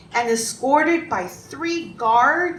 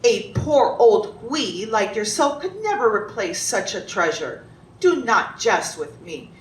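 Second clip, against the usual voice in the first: understated mean condescension; condescending, mean. Acted. Emperor to poor carpenter who broke his vase, mildly condescending. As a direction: talk down to him, a touch of scorn. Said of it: "in a very condescending, mean voice".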